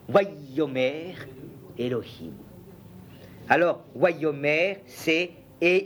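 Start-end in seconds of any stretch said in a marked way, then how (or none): 0.1-2.3 slow, careful Hebrew syllables; Hebrew reading. Shown as a demonstration. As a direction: sound out Wayomer Elohim slowly, word by word. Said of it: "on dit". (lecture lente et appliquée de « Wayomer Elohim »)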